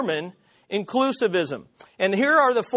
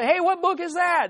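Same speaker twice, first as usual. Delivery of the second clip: quoted question; 9 semitones higher than usual. Retold or imitated. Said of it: "she saw that".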